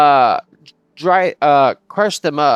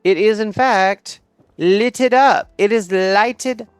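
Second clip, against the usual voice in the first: proud announcing; 6 semitones higher, 4 dB louder, slower than usual. Real, not acted. Proud announcement of his building.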